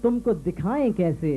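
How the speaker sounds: measured Urdu couplet recital; declaimed mushaira verse; poetry recitation. Acted. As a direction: recite verse to an audience, pausing between phrases. Host recites a couplet on stage.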